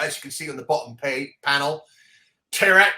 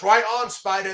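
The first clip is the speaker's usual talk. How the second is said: shouted quote; 5 semitones higher, 5 dB louder than usual. Retold or imitated. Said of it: "And he goes".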